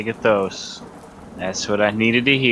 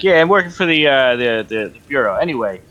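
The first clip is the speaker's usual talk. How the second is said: bluffing; 4 semitones higher than usual. Acted. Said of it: "trying to bullshit him".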